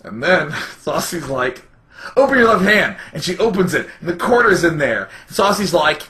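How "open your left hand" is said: higher, louder quoted command; loud retold quote. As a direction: call it out as a quote. Quoting Saucy in retold joke.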